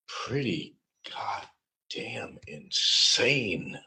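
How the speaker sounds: slow, high, hushed pretty goddamn insane; slow whisper. Acted. Recapping crazy days to viewers in a slow whisper. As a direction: whisper it like it's unbelievable.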